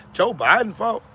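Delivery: flat, disbelieving question; incredulous echo. Real, not acted. Echoing the excuse back to Lawanda in disbelief. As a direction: repeat it like you can't believe it.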